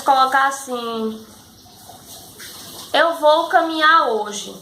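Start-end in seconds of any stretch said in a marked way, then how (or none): 2.9-4.5 slow trailing example. Shown as a demonstration. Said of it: "Três pontos".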